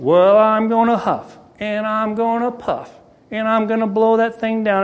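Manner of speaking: hint of a menacing wolf, stretching the words; wolf threatening the pig, lightly voiced; mild big bad wolf.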